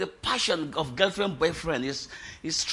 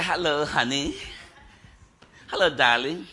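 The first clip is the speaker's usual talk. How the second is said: affectionate greeting. Acted. Girlfriend greeting her caller on the phone, mock-affectionate. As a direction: coo it down the phone to a lover.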